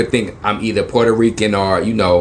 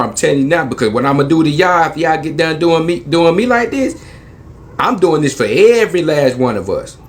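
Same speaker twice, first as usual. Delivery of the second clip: heated rant; 4 semitones higher than usual. Retold or imitated. Ranting threat to officers.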